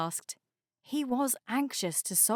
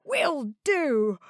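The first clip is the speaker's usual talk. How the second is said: sleepy tugboat voice; 5 semitones higher, 4 dB louder than usual. A narrator's reading. Harry character voice.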